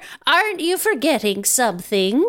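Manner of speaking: lightly voiced prompting nanny; chiding Nanny. Nanny interrupts the boy's wish list, gently chiding. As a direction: remind the boy pointedly, as his nanny.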